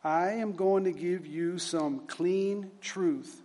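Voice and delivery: slow, deliberate formal reading; solemn admonition read aloud. Acted. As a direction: weigh out each phrase like a stern lecture. Reads superintendent's admonition aloud.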